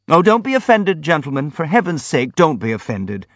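high, pleading exclamation; alarmed. A narrator's reading. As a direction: hurry to calm them, in alarm. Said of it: "the prince exclaimed in alarm".

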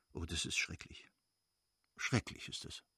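low, almost whispered dismay; hushed horror. A narrator's reading. Lewin reacts to what his brother has done, hushed horror. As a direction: let the voice sink, appalled.

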